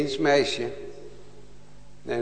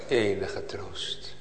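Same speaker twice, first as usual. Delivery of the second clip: whisper; 6 semitones lower, 7 dB quieter, slower than usual. Acted. Hushed climactic question.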